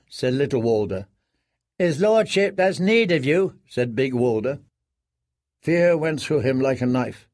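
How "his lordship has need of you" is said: put-on higher boy's voice; a curt young squire. A narrator's reading. Little Walder summoning the prisoner, higher boy voice.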